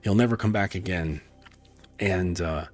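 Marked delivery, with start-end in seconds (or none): 0.0-1.2 super proudful. Acted. Knight taking all the credit for the dead ogre, proudly boasting. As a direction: puff it up proudly, then ease down. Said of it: "all super proudful".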